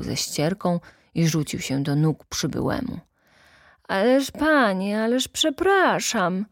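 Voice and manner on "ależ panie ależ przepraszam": higher-pitched, dazed customer objecting; mildly bewildered apology; flustered protest. A narrator's reading. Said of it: "tłumaczył się odurzony gość".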